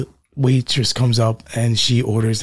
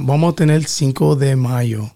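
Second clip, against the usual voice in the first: Castilian Spanish. Shown as a demonstration. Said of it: "that's very proper".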